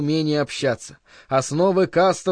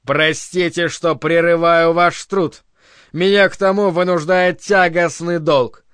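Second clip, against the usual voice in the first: denouncing oration. Acted. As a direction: denounce him before the whole hall. Director's public denunciation speech.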